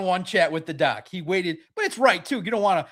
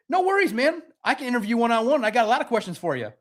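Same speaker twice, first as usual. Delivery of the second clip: eager; 4 semitones higher than usual. Retold or imitated. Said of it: "I said".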